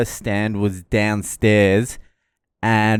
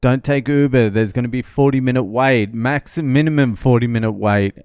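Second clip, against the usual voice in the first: loud, pushy hawker calling Uber over and over; taxi touts calling out; 2 semitones higher, 4 dB louder than usual. Retold or imitated. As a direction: bark at the tourist like a pushy tout. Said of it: "they started come up to me".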